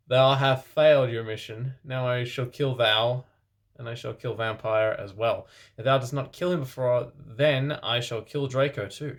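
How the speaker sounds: evil villain voice. Acted. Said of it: "said evilly in his raspy voice".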